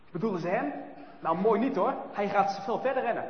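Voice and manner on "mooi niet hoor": plain reading voice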